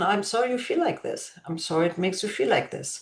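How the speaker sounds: put-on soft, soothing apology to a child; quiet, tender compassion; compassionate. Shown as a demonstration. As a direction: say it gently, with sympathy. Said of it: "show some compassion".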